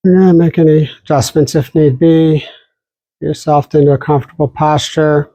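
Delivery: calm, unhurried meditation guide with long pauses; guided meditation. Real, not acted. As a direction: settle listeners gently into posture and breath. Begins leading a guided meditation.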